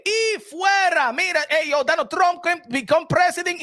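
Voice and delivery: a lightly voiced Trump kicking people out; mock Trump. Trump telling everyone to get out, in a high mock voice. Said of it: "Donald Trump le va a decir".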